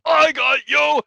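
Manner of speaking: high, loud triumphant yell of a card find; excited shout. Retold or imitated. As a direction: shout it like you just pulled the rarest card.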